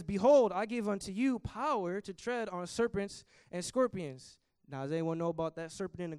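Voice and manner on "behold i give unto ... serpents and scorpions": loud proclamation. Acted. Preacher proclaiming Jesus' promise to the church, loud then slow.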